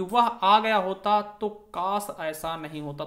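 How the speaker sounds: slow, drawn-out wish line; wistful काश. Shown as a demonstration. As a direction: let काश carry a sigh of regret. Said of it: "ये विस्मय प्रकट कर रहा है".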